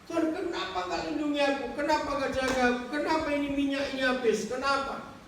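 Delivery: high, pleading cries of kenapa; high, upset protest at God; angry complaint to God. Acted. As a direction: rail at God for abandoning him. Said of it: "dia marah-marah kepada Tuhan".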